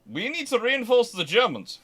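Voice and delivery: mock-serious officer announcing a silly plan; mock incredulous quote. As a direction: toss off the line like a planner who can't believe it. Mock quote of British army planners.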